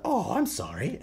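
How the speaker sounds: high, put-on sweet apology; mock apology. Killer clown to a knocked-down survivor, mock apologetic. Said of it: "then he'll be like".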